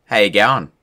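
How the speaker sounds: everyday Aussie accent; casual Australian twang. Shown as a demonstration. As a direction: greet in a natural Australian accent. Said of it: "the most Aussie thing you'll ever hear".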